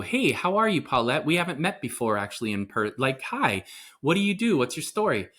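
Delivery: lightly acted, lilting hello; friendly greeting. Host greeting a guest they've just met, friendly lilt.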